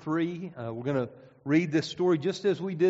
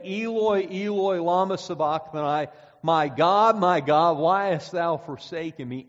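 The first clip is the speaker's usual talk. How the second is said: raised voice, imitating an anguished cry; retold loud cry; 5 dB louder than usual. Preacher retelling what the centurion heard, loud retold cry. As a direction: quote the cry loudly, without screaming. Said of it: "He heard his cry".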